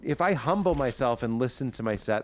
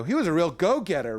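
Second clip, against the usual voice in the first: acted-out character line; 4 semitones higher than usual. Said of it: "I acted out more, but I go".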